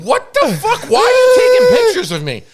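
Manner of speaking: high, fast, shouted outrage; mock furious shout, high and fast; retold angry yell. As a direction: yell it like you caught them laughing at you.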